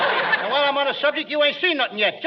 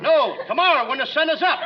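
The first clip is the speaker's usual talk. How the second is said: ordinary delivery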